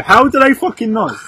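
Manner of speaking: raging gamer. Real, not acted. Outraged at the quiz answer.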